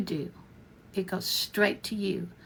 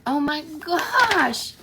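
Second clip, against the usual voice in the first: amazed gasp; 6 semitones higher, 5 dB louder, much slower than usual. Pretend. Imagined amazed reaction to webinar.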